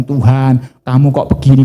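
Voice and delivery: mock crying complaint. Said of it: "Mereka menangis".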